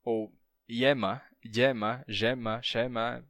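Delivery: yema said as yema, gema, shema; variant pronunciations. Shown as a demonstration. Teacher listing Spanish yema variants. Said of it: "várias pronúncias".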